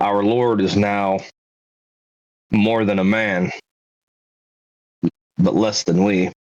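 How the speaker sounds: whispering. A guard at their lady's shoulder speaks privately to another character: whispering. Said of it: "I'd like to whisper to Cynric".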